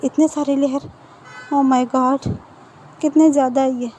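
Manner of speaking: lightly acted disbelief; retold astonishment with a touch of exasperation; mildly amazed. Wing reacts to so many clothing layers, mildly amazed.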